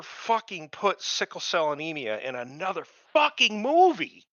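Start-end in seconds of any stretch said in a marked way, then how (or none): 3.1-4.2 high, loud and slow, stretching the words out; outraged yell. Real, not acted. Ranting about the movie, an outraged high yell. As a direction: nearly shout the end of the rant.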